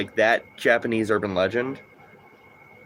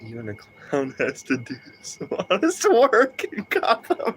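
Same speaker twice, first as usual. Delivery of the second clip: slow, higher Joker, mock-solemn; 8 semitones higher, slower than usual. Streamer voicing Joker defending himself, slow Joker voice. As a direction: drawl it like a wistful clown. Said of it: "in the Joker voice".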